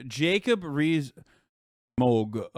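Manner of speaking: very slow, drawn-out posh impression; Jacob Rees-Mogg. Streamer trying a requested Jacob Rees-Mogg accent, slowly drawn out. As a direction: stretch the name out in a mock upper-class accent. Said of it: "Can you do a Jacob Rees-Mogg".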